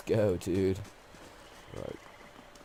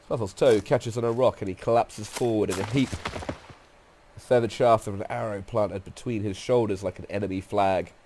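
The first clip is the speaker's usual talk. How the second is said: deliberate, descriptive storyteller read; game story narration; 7 dB louder than usual. A narrator's reading. Narrator describing a guide felled by an arrow, story narration. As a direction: narrate the fall with weight.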